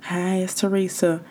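soft podcast voice. Shown as a demonstration. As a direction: hold the voice down so you don't hurt ears. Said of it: "I'm tired of talking like that".

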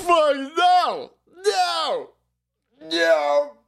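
high squealing no through laughter; laughing disbelief. Real, not acted. Streamer reacting to a clip, laughing high nos.

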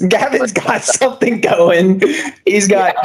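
a teasing laugh about a friend's project. Real, not acted. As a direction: giggle the words out.

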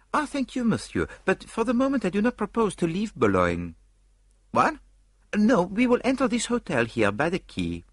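high, lilting Belgian-French detective; prim little Belgian sleuth musing aloud; Poirot voice. Acted. Poirot doubting to Hastings, in a high Belgian lilt.

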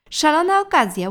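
high, loud cry of delight. A narrator's reading. Mom exclaims in delight, high and loud. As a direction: mom thrilled by the flying cushions. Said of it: "ucieszyła się mama".

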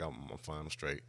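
very soft retold mumble; barely voiced reassurance; mumbled. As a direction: drop the volume and mumble a brush-off. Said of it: "I mumbled".

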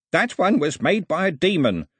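high, loud accusing shout. A narrator's reading. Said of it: "shouted Ataba".

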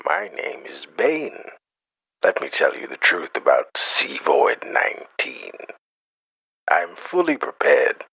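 Bane villain voice. Acted. Caller plays Bane confessing on podcast, lightly voiced villain. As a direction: play the villain confessing to listeners.

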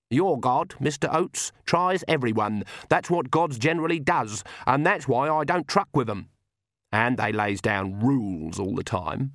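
grumbling granny, mildly dismissive of gods; lightly voiced crotchety granny, scornful. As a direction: lightly play a stubborn old granny lecturing.

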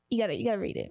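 hushed urging whisper. Real, not acted. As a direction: whisper it like a secret.

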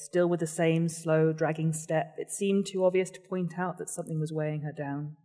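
reading a novel aloud; measured storytelling voice; story narration. Acted. Author reads her novel aloud.

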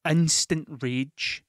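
Instant rage said slowly, each word weighed; slow emphatic. Real, not acted. Telling the audience about bus rage, slow and emphatic.

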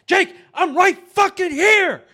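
high, loud retort, reenacted; exasperated yell. Kane yelling back at Jake in the same box, exasperated. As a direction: snap back loudly at a yelling friend. Retold reply to yelling teammate.

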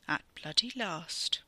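slow, cold whisper. Acted. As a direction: breathe it slowly, coldly. Merlin speaks inside his head.

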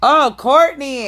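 put-on high drawn-out valley girl; mock Kourtney drawl. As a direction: stretch it like a bored reality star.

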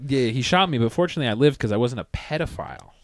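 mock caption voice. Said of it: "what he should have captioned".

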